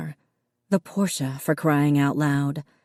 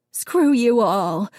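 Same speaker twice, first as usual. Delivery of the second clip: higher, slow, tearful rage; tearful outburst; 6 semitones higher, 4 dB louder, slower than usual. A narrator's reading. Missus Dunn cursing the family, tearful and higher. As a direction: curse them through tears. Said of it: "Missus Dunn said, tears leaking out of her eyes".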